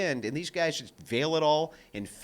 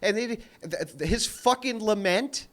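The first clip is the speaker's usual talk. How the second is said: loud, high, exasperated rant; a man ranting about Dawkins's hypocrisy, loud and exasperated; heated rant; 7 semitones higher, 6 dB louder than usual. Real, not acted. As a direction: rail against him in disbelief.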